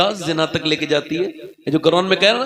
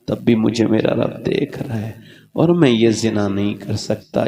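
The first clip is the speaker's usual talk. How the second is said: choked confession; 8 semitones lower than usual. Acted. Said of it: "कहा".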